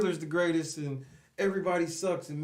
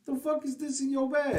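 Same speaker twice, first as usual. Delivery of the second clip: mock TSA agent; 9 semitones higher than usual. TSA agent scolding retold.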